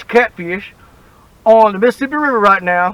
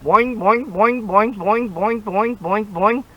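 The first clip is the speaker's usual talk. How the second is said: springy boing noises; 3 dB quieter, slower than usual. Shown as a demonstration. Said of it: "it's elastic and stretchy".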